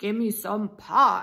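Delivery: growling. Narrator reads an angry alligator stomping up before the pie is cut; growled. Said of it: "he growled".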